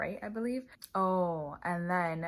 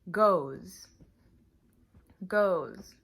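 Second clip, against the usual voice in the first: much louder, careful goes; model word; 8 dB louder than usual. Shown as a demonstration. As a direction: hit goes loud and clear. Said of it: "you just say".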